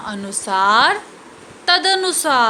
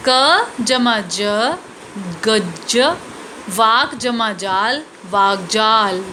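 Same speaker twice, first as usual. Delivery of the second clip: slow spelled-out sounds; 2 semitones lower than usual. Shown as a demonstration. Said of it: "उच्चारण के साथ समझेंगे".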